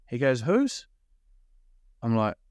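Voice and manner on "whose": very high, rising mock query; pointed challenge. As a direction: imitate a stepdad pressing the point. Stepdad challenges again, acted out.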